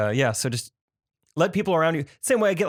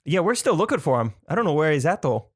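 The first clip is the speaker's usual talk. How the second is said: lightly imitating a thick Wisconsin accent with long O's; a hint of Wisconsin, leaning on the "oh" sounds; mock Wisconsin accent; 2 semitones higher than usual. The speaker mimicking a Making a Murderer interviewee in a mild Wisconsin accent. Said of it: "Like, with the O's".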